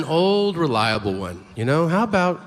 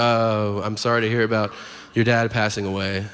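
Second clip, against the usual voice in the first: low, hushed-toned condolence, spoken smoothly; sympathetic; 6 semitones lower than usual. Acted. You walk up to someone whose dad died, sympathetic. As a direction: gently offer condolences in a lower voice. Acted condolence to bereaved person.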